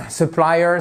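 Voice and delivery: "supplier" with the beat on PLI; accent the middle of "supplier"; stress second syllable. Shown as a demonstration. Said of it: "la deuxième syllabe".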